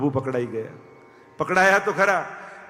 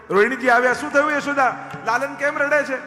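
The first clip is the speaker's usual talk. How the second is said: high, animated complaint; fretting mother; 8 semitones higher than usual. Acted. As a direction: voice a worried mother, pitched up. Two mothers discuss crying child.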